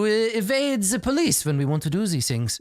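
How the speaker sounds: grand doctor voice. Acted. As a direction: preach enlightenment like a pompous host. Doctor continues.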